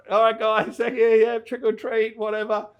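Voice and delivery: loud "whatever" brush-off, acted out; dismissive retort. Retelling his reply to being warned off the property, loudly dismissive.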